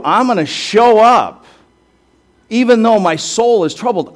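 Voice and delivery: preacher lending Jesus a passionate voice; earnest Jesus voice. Acted. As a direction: give Jesus's vow with rising fervor.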